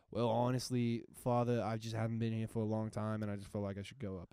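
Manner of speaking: put-on Boston accent. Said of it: "in a Boston accent".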